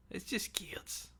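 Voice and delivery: slow, high whisper to himself; whispered self-reassurance. Real, not acted. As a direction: soothe yourself in a slow whisper.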